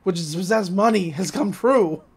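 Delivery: Stan's loud mock delight at his prize; mock overjoyed Stan. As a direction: crow about the dream coming true. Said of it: "It's like".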